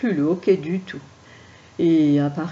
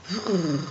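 shivering vrrr. Acted. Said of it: "frissonnait de peur".

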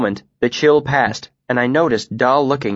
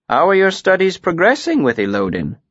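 higher-pitched, casual inquiry; 8 semitones higher than usual. A narrator's reading. Master asking about a student's studies, casually. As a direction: ask lightly, as if in passing. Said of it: "he asked casually".

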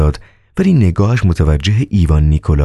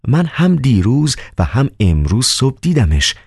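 startled; 6 semitones higher than usual. Acted.

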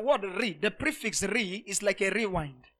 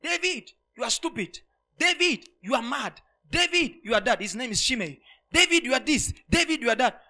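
mock cursing; 3 semitones higher than usual. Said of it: "started cursing him".

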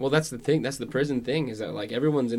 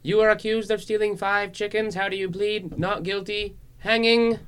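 mock judge; 9 semitones higher than usual. Mock old-time judge.

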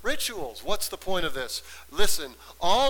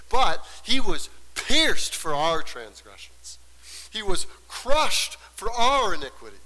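declaimed scripture. Real, not acted. Preacher recites Isaiah to congregation, forceful declaiming. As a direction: proclaim the verse, leaning on key words.

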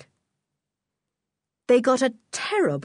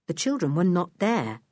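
ordinary delivery

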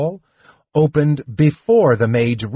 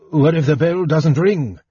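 demanding loudly; 5 semitones higher than usual. A narrator's reading. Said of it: "Fizban demanded loudly".

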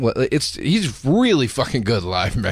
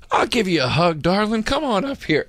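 rising higher, gushing showman voice; crooner impression; 8 semitones higher than usual. Singer invites the crying girl onstage, gushing and high. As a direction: coo it like a smooth crooner to a fan.

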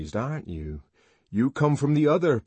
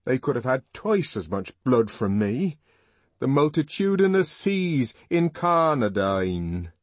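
louder, higher, impassioned outburst; passionate young man; 7 semitones higher, 7 dB louder than usual. A narrator's reading. Young man longing to be the sacrifice, loud impassioned outburst. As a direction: rage that they refused you.

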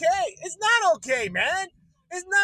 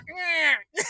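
pouty grunt; 3 semitones higher than usual. Retold or imitated. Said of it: "That's my impression".

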